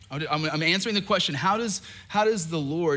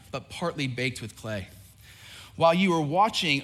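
scripture reading. Acted. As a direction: read the prophecy with weight. Reads scripture as Daniel.

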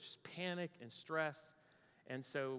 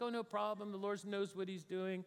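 higher, airy voice of unbothered faith; mock serene calm; 5 semitones higher than usual. Preacher pretending he took the delay calmly, mock serene. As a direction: pretend to be perfectly at peace with it. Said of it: "I was like".

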